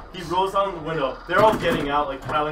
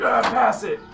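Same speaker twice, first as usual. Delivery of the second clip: mock cheering yell; 6 semitones higher, 4 dB louder, slower than usual. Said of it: "Banging on the glass".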